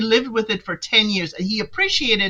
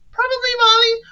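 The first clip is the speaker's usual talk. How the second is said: sarcastic; 14 semitones higher, 3 dB louder than usual. Real, not acted. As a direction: agree with heavy sarcasm. Sarcastic jab at contestant.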